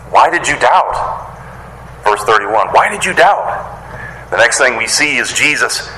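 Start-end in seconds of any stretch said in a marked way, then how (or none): 0.1-1.3 slow, drawn-out questioning reproach; gentle admonishment. Acted. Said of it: "gives him a little admonishment". 2.7-3.7 higher-pitched questioning reproach; mild admonishment. Acted. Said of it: "gives him a little admonishment".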